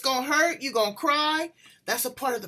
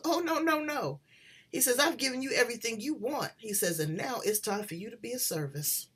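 softer, a hint of a sweet gentle God; 6 dB quieter than usual. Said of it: "that little sweet, angelic, gentle voice".

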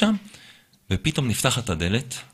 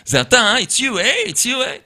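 mock accusing shout; 12 semitones higher, slower than usual. Boss confronting the Israeli worker, higher accusing call. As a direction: escalate the accusation at the staffer. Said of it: "הוא אומר לי".

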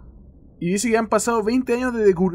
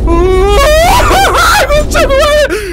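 shrieking high and loud, slowed; terrified scream; 12 dB louder, much slower than usual. Real, not acted. Player screams at a monster, high terrified shriek. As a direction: scream in real panic.

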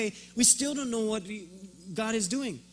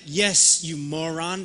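condescending yes; 2 semitones lower, 6 dB louder, slower than usual. Retold or imitated. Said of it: "Almost like".

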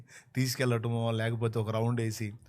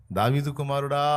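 louder call to the Son of David; louder beggar's cry; 5 dB louder than usual. Acted. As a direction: call out from the roadside. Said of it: "వేస్తే కేక".

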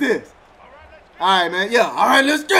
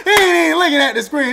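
excited repeat; 5 semitones higher, faster than usual. Real, not acted. Repeated faster, laughing.

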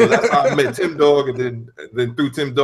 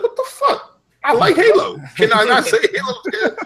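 squeaky high mock whine, laughing; high-pitched mocking fanboy voice, laughing through it; mock indignant gamer. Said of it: "Be like".

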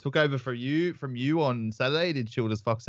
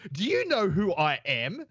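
mock celebrity arrogance; 5 semitones higher, slower than usual. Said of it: "he was like".

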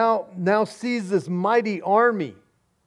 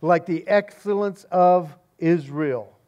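booming voice; 3 dB louder than usual. Acted. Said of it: "loud, booming voice once again".

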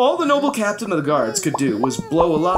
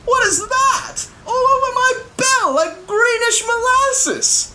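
high, slow alarmed bell ringer; a high, slow gasp of dismay. Acted. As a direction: stare in horror at the goo.

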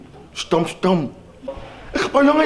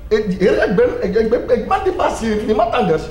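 mock boss; 5 semitones higher than usual. Leerling speelt de baas.

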